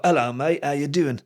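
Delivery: casual Londoner's accent, a little lifted; London accent. Shown as a demonstration. Showing how he emulates accents, London accent. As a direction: greet a mate like a Londoner. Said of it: "That's a Londoner".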